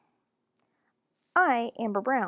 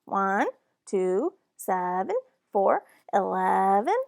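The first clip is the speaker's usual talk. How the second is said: put-on little kid counting, building louder; toddler counting; 5 dB louder, slower than usual. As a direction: count proudly like a small child. Toddler counting proudly, getting louder.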